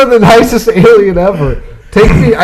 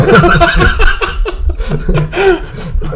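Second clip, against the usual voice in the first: spaceship hum; 12 semitones higher than usual. Acted. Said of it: "do the spaceship sound again".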